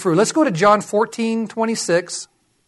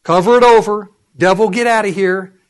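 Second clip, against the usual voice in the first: firm command; 6 dB louder than usual. Acted. Commanding the devil to leave.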